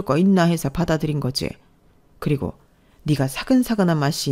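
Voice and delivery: haughty, emphatic scolding; contemptuous mother-in-law. Acted. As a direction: talk down to the daughter-in-law. (업신여기며 다그치는 시어머니)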